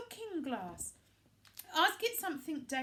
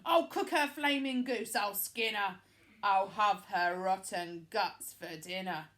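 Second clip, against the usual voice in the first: queen yelling; 2 semitones lower, 8 dB louder than usual. A narrator's reading. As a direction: scream threats like a raging queen. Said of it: "she yelled".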